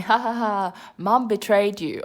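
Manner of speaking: brother gloating with a fake ha ha ha; gleeful mock chuckle. Little brother gloating over phone, mock gleeful chuckle. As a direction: cackle it out, teasing and pleased. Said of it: "gleefully chuckling".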